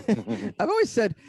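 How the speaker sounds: chuckling through the words, slow; laughing. Real, not acted. Guest laughing as he starts his answer to the hosts. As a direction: laugh the line out slowly.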